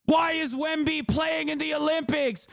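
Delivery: high-pitched mock outraged whining; mock complainer. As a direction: whine indignantly, ridiculing the complainers. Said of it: "That's what you sound like".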